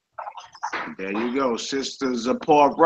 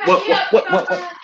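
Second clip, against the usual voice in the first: high squeaky what. Acted. High mock what chant.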